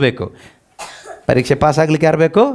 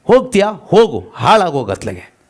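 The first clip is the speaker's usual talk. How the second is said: mild angry God. Retold or imitated. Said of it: "ದೇವ್ರು ಹೇಳ್ತಾರೆ".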